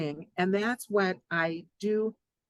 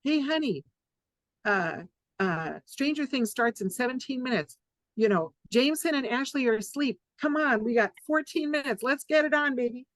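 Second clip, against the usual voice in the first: eager spouse; 4 semitones higher than usual. Retold or imitated. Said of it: "Basically, you sum it up".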